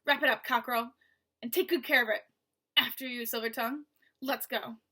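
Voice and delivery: lightly voiced rasping thug; rasping villain. Basta taunting Mo through the wall, light rasping menace. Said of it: "the cat-like voice".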